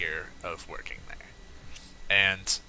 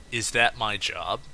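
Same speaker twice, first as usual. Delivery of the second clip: matter-of-fact question; 4 dB louder, slower than usual. Retold or imitated. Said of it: "he says".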